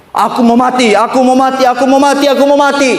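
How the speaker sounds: preacher voicing Jonah's angry wish to die, rising; Jonah's despair. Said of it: "Lalu dia marah sama Tuhan".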